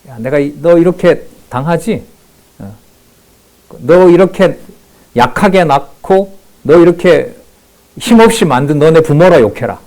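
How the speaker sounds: a hint of a high, loud jeering bully; insulting taunt. Preacher imitating the envoy humiliating Judah, mock high jeer. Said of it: "죽기보다 못한 모욕을 당하는 거죠".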